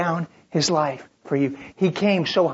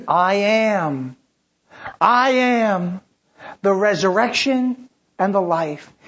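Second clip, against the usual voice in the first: louder, ringing declaration; proclaimed; 4 semitones higher, 4 dB louder, slower than usual. Acted. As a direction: announce it to the whole church. Proclaiming Jesus' words loudly.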